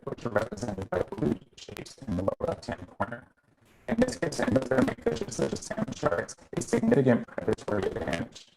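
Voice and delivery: choppy dropping call audio; glitchy robotic call; audio breaking up. Real, not acted. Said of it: "The audio is, is breaking up quite a bit".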